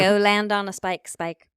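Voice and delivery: mock-indignant shout; mock telling-off. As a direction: call it out loudly, as a jeer. Mock outburst telling a character off.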